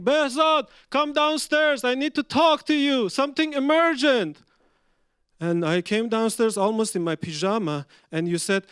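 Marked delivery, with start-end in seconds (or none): 0.0-4.4 retold shouting. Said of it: "you start shouting".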